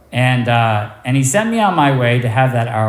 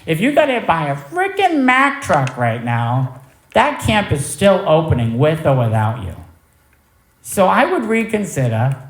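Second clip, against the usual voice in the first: higher, sharp telling-off; a mentor laying down the law; stern scolding; 6 semitones higher, 3 dB louder than usual. Retold or imitated. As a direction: scold him like a tough sponsor. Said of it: "I needed to be talked to like that".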